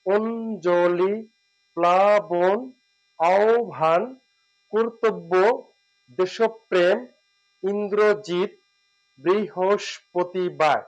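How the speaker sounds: each word said carefully with a lifted ending; careful recap, each word rising; repeated word list. Shown as a demonstration. Teacher reviews the word list for the class, careful and rising. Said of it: "আবার বলছি".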